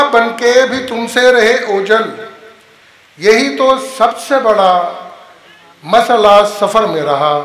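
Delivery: measured couplet recital with deliberate pauses; poetry recitation. Acted. Host reciting a couplet before welcoming the guest, measured recitation. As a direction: recite the verse phrase by phrase.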